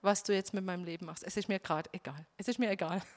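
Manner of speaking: low, giving up on God's will; resigned surrender. Retold or imitated. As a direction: let it go, tired of fighting. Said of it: "ich hab kapituliert".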